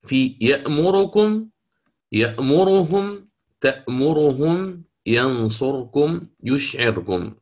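each word drawn out slowly as a Quran recitation example; slow recited examples. Shown as a demonstration. Teacher reciting the example words slowly for students. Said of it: "في أي الكلمات؟".

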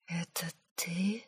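whispered, slow, breath only; stunned whisper. A narrator's reading. Girl whispering to her uncle, stunned whisper. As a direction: barely breathe it out in shock. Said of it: "прошептала я ошеломлённо".

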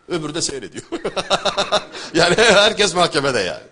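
amused, breaking into laughter; real laughter spilling into the words; laughing while talking. Real, not acted. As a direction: laugh through the punchline, then exclaim loudly. Laughs at his own remark.

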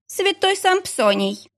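slow, high, weary annoyance; irritated hospital clerk. A narrator's reading. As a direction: answer the phone fed up. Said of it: "с трудом скрывая раздражение". (раздражённо, медленно и высоко)

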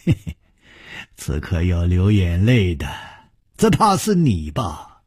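low, sinister sneer; 阴恻恻地笑; sinister chuckle. Acted. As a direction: menace him with a dark chuckle. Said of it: "阴恻恻地笑着说".

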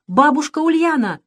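calling out. A narrator's reading. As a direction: call her name from afar. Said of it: "крикнул Саша".

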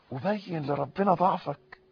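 ordinary talk, nothing marked

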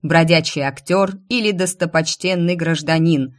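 loud, ringing public announcement; herald's proclamation. Acted. Herald announcing royal decree to the crowd, ringing proclamation.

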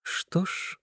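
soft shy whisper. Acted. The girl answers the boy in a shy whisper. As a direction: breathe it out shyly. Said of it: "Она говорит застенчиво".

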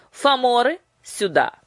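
loud, high summons; commanding call. A narrator's reading. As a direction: call the servants sharply. Queen summons her giants.

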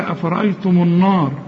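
النار with thick, dark naa; wrong heavy nun. Shown as a demonstration. Teacher mimics student's slip, heavy nun. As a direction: misread النار with emphatic ن and vowel. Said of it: "هتفخم منك".

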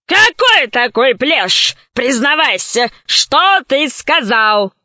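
slow suspicious gorilla voice; slow gorilla interrogation. Acted. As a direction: demand slowly like a beast.

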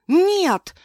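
high, loud cry of no; scream. Acted. Wife fights off her attacker, loud high scream. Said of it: "крикнула я".

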